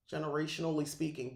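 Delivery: quick, stumbling pass at the phrase; rushed restart. Real, not acted. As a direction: hurry through it while still fumbling. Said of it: "geez, I'm all over the place".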